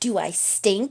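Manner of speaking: put-on, snarled, biting tone. Retelling a character's reply to being offered a mint: imitating a snarl. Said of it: "snarls at him".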